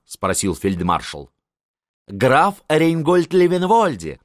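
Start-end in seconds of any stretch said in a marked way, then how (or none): 2.1-4.2 slow, high, pompous naming; fawning prince. A narrator's reading. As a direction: prince naming the count with reverence. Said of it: "пояснил принц". (медленно, почтительно)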